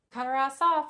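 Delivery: loud emphatic verdict. Real, not acted. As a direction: hit it hard, falling on off. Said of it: "that's all I'm saying".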